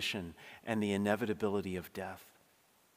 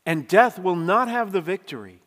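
triumphant proclamation; 6 semitones higher, 9 dB louder than usual. Real, not acted. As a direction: preach it high and loud, full force. Climax of the sermon.

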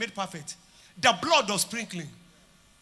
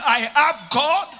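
loud, high, slow preaching; fervent proclamation; 4 semitones higher, 8 dB louder than usual. Real, not acted. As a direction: boom it out to the church.

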